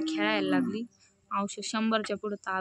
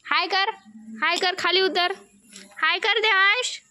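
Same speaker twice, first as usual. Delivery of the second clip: loud calling; 10 semitones higher, 8 dB louder than usual. Real, not acted. Mother calls kids, cow coming.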